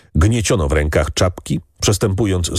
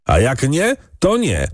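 higher pitch, rising defiance; mild defiant shout; 7 semitones higher than usual. A narrator's reading. Second farmhand defies the master, mildly shouting. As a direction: call it out boldly without much volume. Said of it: "krzyknął drugi".

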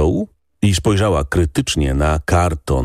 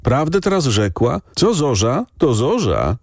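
much higher, eager agreement; agreeing villagers; 9 semitones higher than usual. A narrator's reading. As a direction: chime in together. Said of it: "odezwało się parę głosów".

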